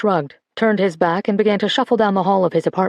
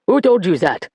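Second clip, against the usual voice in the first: barking. Acted. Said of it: "he barked".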